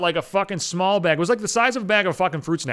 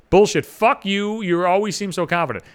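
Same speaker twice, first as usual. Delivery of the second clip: loud scoff; 3 semitones higher, 3 dB louder than usual. Retold or imitated. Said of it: "She's like".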